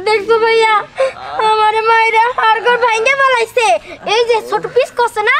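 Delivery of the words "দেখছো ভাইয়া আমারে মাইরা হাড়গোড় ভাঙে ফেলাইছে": tearful complaint. Acted. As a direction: whimper out the complaint. Complaining tearfully to big brother. (কান্না কান্না গলায় নালিশ)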